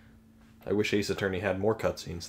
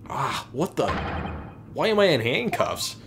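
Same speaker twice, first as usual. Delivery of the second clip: alarmed surprise; 3 semitones higher than usual. Acted. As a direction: react to finding yourself cuffed. Hero wakes up cuffed.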